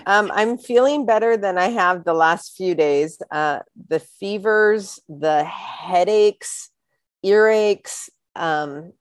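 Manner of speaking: stuffy nose from covid; congested. Real, not acted. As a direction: talk through a blocked nose. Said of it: "you sound a little congested there".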